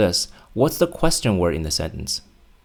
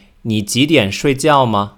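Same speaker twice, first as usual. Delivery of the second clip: mock student mistake; 3 semitones higher, 5 dB louder than usual. Teacher imitating a student's mistaken question. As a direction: say it like a student getting it wrong. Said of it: "Some students would say".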